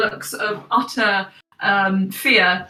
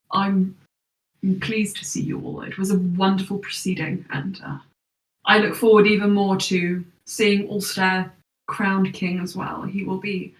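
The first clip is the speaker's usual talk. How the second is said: tired, smiling noble; 2 semitones lower than usual. Acted. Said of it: "he smiles and he just says".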